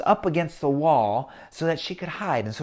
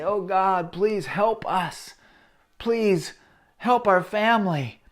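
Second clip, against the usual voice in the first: lightly voiced pleading father, a bit higher; father's pleading prayer; 4 semitones higher, slower than usual. Father kneeling in the barn, praying in a pleading voice. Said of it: "to cry out to God and say".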